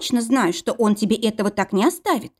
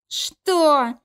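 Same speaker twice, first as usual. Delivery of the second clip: roar; 7 semitones higher than usual. Acted. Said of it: "проревел здоровяк".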